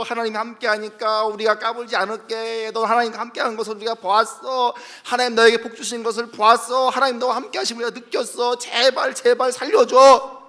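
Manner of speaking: mild mock begging, slowing to a plea; begging enemies. Enemies begging Isaac, mild mock pleading. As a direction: beg for your life, half-hammed.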